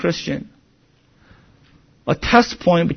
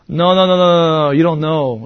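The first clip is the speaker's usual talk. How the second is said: rapid run of insistent no's; mock cocky contradiction; proud protest. Peter brushing off Christ's prediction, proudly insistent. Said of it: "What pride?".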